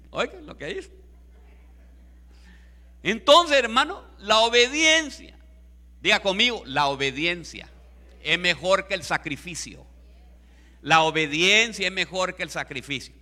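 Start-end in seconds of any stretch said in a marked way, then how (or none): 3.0-13.1 raised preacher's voice in short, punched phrases; emphatic preaching. Real, not acted. Preacher has the congregation repeat the lesson on obedience, emphatic preaching. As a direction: drive the lesson home to the congregation.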